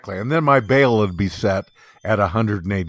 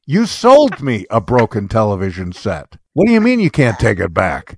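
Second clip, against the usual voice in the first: indignant, louder demand; louder indignant retelling; shrill anger; 7 dB louder than usual. Retold or imitated. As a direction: push back hard at the clerk. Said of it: "I'm getting really shrill".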